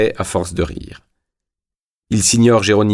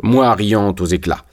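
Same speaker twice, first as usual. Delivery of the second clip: ordinary delivery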